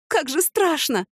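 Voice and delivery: high, frightened wail; fearful, on the verge of tears; nearly crying. A narrator's reading. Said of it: "чуть не плакала Цветкова". (испуганно, чуть не плача)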